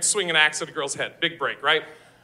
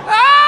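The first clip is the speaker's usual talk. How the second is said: sudden yell; 10 dB louder than usual. Real, not acted. Comic outburst yell.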